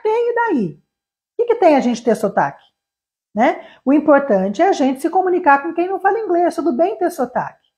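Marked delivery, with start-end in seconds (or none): 0.0-2.6 defiant. Real, not acted. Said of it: "defiant retort".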